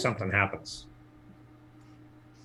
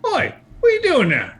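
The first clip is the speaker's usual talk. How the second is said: high, loud spider shout; spider's challenge; 6 dB louder than usual. Acted. GM's giant spider challenges the intruders, high challenging shout.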